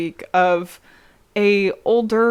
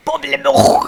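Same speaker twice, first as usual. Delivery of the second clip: louder fake French with phlegmy throaty ending; exaggerated French accent; 4 semitones higher, 5 dB louder than usual. Host hamming it up on request, exaggerated French accent. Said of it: "I mean, do that more".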